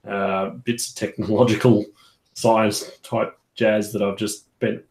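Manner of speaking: talking round a paintbrush held in the teeth; paintbrush in mouth. Real, not acted. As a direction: speak with a brush between your teeth. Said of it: "As I put a paintbrush in my mouth".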